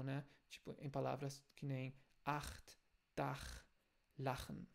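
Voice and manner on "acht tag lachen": acht, lachen with a scraped back-of-throat ch; rough German ch. Shown as a demonstration. Teacher models the throaty ch for students. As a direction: give the harsh ach sound. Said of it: "mais de fricção".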